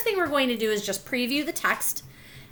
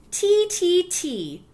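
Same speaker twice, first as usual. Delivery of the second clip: put-on high, louder baby chirp; baby babble; 10 semitones higher, 5 dB louder, much slower than usual. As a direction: squeal it like a toddler. Baby babbling voiced in story.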